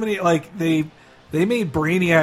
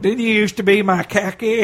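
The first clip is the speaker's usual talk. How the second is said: Bob Hope impression; 3 semitones higher than usual. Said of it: "do Dana Gould's Bob Hope".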